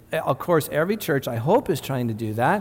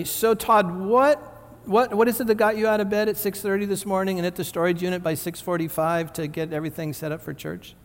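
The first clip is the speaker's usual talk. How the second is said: higher, fast, quizzical asking; curious questioner; 3 semitones higher than usual. Retold or imitated. Pastor imitating a friend asking why he's up early, high and quick. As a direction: voice a puzzled friend pressing him, quick and high. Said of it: "if you were to ask me".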